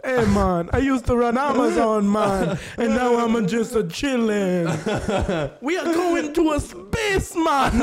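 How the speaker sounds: lazy dude voice, half sung on space; hammed-up chill billionaire drifting into song; stoner Jeff Bezos. Bezos bragging about space like a stoner, half singing. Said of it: "looks like he talks like that".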